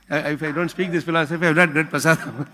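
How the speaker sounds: quoted admission breaking into laughter; sheepish laughing aside; laughing confession. Retold or imitated. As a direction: chuckle through the excuse. Sannyasi admits why, laughing.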